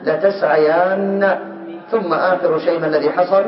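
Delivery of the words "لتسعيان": slow demo form. Shown as a demonstration. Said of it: "صارت".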